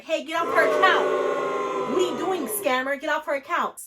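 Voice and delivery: loud, high mock yell; loud defensive yelling; mock shouting fans. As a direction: shout at the scammer for her. Quoting defensive followers.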